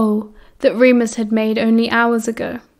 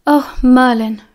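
sighing; 4 dB louder, slower than usual. Acted. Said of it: "she sighed".

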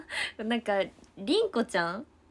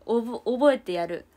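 mock threat; 4 dB louder than usual. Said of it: "覚えてやるって言ったらなんかあれだな".

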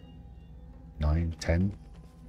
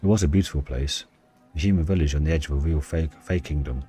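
story narration. Acted. Reads game story aloud.

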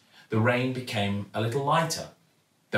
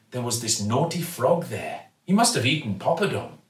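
kindly shopkeeper; 3 semitones higher than usual. Acted. Raj tells tadpole tale.

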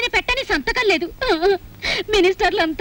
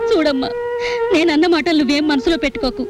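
tearful plea; 2 semitones lower than usual. Acted. Wife pleads tearfully with young woman.

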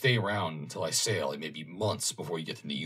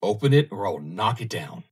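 threat; 2 semitones higher, 7 dB louder than usual. Acted. Captain threatens to break the door.

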